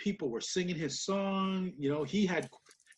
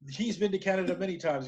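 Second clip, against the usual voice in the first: raised, mildly insistent mock protest; retold protest; 4 semitones higher, 4 dB louder than usual. Commentators contradict Jericho about Canada, retold protest. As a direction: imitate commentators pushing back on a false claim. Acted commentary argument, other side.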